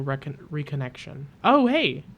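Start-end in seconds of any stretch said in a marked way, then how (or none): 1.4-2.0 surprised hey. Real, not acted. Surprised at finding someone.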